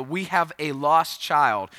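slow, lightly mimicked public announcement; megaphone announcement. Security announcing a lost boy, megaphone style. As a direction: spell it out slowly like park security. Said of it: "there was, like, this big megaphone".

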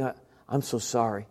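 soft, low confession; penitent. Retold or imitated. Young man kneeling to God after months away, quietly penitent. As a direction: murmur a humble apology. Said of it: "just kneeling down saying".

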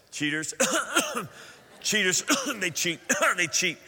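a muttered jeer between coughs, hammed up; fake-cough the insult to hide it; half-joking jab at a rival team; mock jeer. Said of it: "Did I say, that come out loud again?".

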